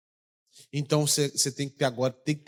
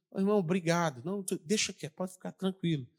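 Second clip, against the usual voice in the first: calming quiet; 2 semitones higher, 6 dB quieter than usual. Retold or imitated. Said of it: "eu falei assim".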